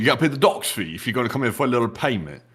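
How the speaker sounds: lightly done British marmot voice; botched British accent. Pretend. Marmot explains car fees to the host, rough British accent. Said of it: "with this accent tonight".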